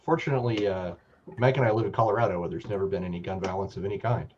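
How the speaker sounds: sarcastic. Real, not acted. Co-host remarking on gun issues back home, sarcastic. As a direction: say it with dry, feigned innocence. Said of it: "I say that incredibly sarcastically".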